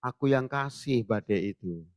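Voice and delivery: smiling Jesus. Retold or imitated. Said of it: "Yesus senyum".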